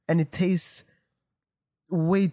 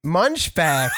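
laughing blurt. Real, not acted. Blurts sponsor name laughing.

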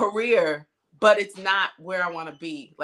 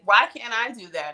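higher, mildly jealous complaint; retold jealousy; 5 semitones higher than usual. Retelling her complaint when he went away, mildly jealous. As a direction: imitate your own envious protest. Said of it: "I would get jealous".

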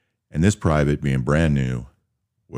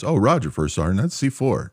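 naive private; 7 semitones higher than usual. Retold or imitated. Private casually admits it.

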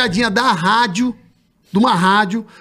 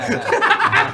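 burst of laughter; 9 semitones higher than usual. Real, not acted. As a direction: crack up laughing. Laughing at the joke.

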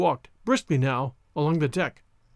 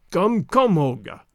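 propitiatory; 3 dB louder, slower than usual. Acted. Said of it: "urged the man in propitiatory tones".

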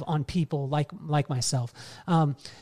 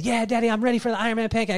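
son's excited reply; 5 semitones higher, faster than usual. Retold or imitated. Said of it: "And he said".

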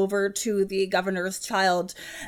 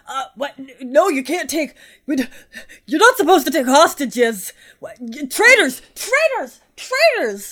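indignant guard shouting; 2 semitones higher, 4 dB louder than usual. Acted. GM voices guard shouting traitors.

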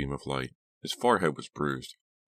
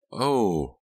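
drawn-out "oh", higher and louder; a startled, rising-falling moan; alarmed moan; 6 semitones higher, 6 dB louder than usual. A narrator's reading. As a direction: moan in alarm, pitch arcing up and down. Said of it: "let out a moan".

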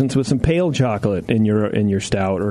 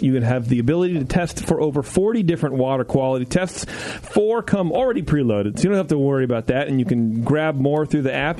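ad read; 4 semitones higher than usual. Acted. Host reads sponsor ad.

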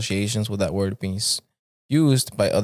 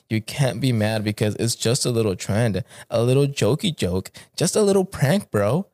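mock sarcastic taunt. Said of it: "I told him".

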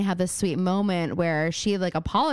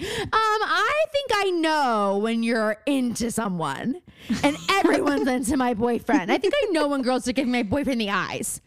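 put-on smug girlfriend voice; 4 semitones higher than usual. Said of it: "she's like".

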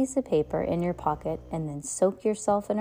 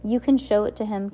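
mild anger; 4 semitones higher, 5 dB louder than usual. Acted. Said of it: "his voice rising in anger".

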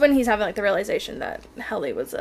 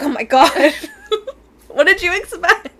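excited voice; 8 semitones higher, 11 dB louder than usual. Retold or imitated. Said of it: "she's like".

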